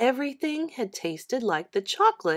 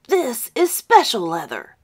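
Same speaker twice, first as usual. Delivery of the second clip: put-on boy's voice; 3 semitones higher, 7 dB louder than usual. John answers contentedly.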